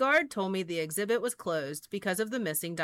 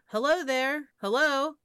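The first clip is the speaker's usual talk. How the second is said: mildly raised, higher storybook call; 6 semitones higher, 4 dB louder than usual. A narrator's reading. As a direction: call out lightly for someone missing. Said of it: "She called out".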